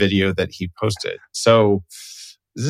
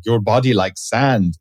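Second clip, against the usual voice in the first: put-on Russian accent. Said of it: "kind of in a weird Russian accent".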